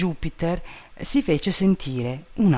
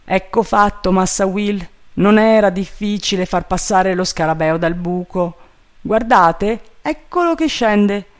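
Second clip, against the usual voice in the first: high, loud servant voice; raised reply, climbing at the end; triumphant servant Jupiter; 5 semitones higher, 5 dB louder than usual. A narrator's reading. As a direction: call down that it is done. Voices the servant reporting success.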